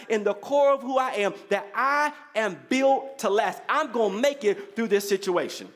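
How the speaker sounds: emphatic preacher's declaration; preaching. Real, not acted. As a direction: drive each phrase home to the congregation. Preaches to the congregation.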